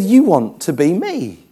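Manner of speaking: measured, deliberate retold insistence; slow insistence. God repeats himself to the arguing preacher, slow and insistent. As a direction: spell it out slowly, imitating a patient correction.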